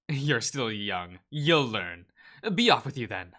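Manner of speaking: firm, loud send-off; loud dismissal. Acted. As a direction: shoo him away with authority. Doctor dismisses him loudly.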